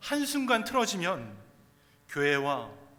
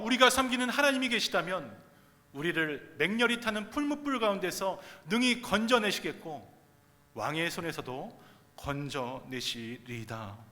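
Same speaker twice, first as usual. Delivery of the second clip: raised, emphatic reading of a bold answer; scripture reading; 4 dB louder than usual. Real, not acted. Reads scripture with the three friends' answer. (힘 있게 선포하는 성경 봉독)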